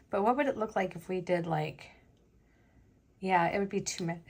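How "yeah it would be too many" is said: talking through hiccups; a hiccup catching the words. Real, not acted. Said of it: "I have the hiccups".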